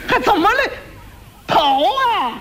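high frantic shout, forgetting the slang; panicked yell. Acted. Quack doctor panicking and yelling plainly at his apprentice to run, high frantic shout. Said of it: "他一着急，他嚷嚷出来了".

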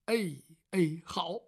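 whispered compliant reply. Acted. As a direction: breathe out a hushed okay. Man agrees quietly.

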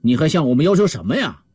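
a touch of astonishment in the question; understated puzzled surprise; mild surprise. Acted. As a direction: ask it mildly taken aback. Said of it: "强盗们惊讶地问道".

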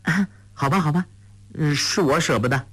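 put-on girl yielding with a playful grin; sheepish tease. A narrator's reading. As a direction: stick your tongue out and give in cheekily. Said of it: "黄蓉伸了伸舌头说".

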